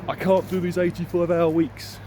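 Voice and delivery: acted overworked outburst; acted protest. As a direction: raise your voice as if at breaking point. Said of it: "realise that I wasn't saying".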